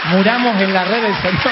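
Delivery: loud comic battle cry; mock-heroic rallying cry. Fish urging fellow fish into the net, loud mock-heroic cry. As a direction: proclaim a glorious death with hammed-up fervour.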